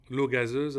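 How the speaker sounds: l'eau gazeuse said with a French lilt. Shown as a demonstration. Vlogger tells viewers what sparkling water is called in French. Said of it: "as we say in French".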